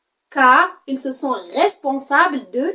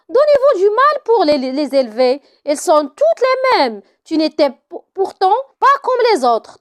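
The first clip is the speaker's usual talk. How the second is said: nurse bursts out. Acted. Nurse scolding Antigone for sneaking out, mock anger. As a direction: let the nurse blow up at the girl. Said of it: "La nourrice éclate".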